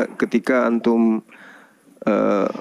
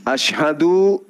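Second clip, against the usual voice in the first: slow dictation; 5 semitones higher, much slower than usual. Shown as a demonstration. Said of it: "ikuti saya dalam bahasa Arab".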